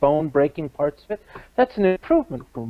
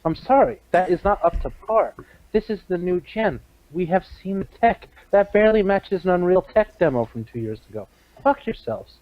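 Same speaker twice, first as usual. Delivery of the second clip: mock outraged gamer; 2 semitones higher than usual. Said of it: "You say that's not gameplay".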